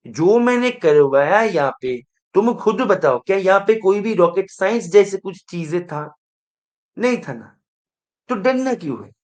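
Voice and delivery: loud, challenging the class; teacher scolding fear of questions, loud. Real, not acted. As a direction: throw the question at them. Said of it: "वैसे भी मैं बहुत चिल्ला रहे हैं".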